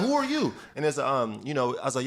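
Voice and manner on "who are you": laughing mock disbelief. Players reacting to newcomer.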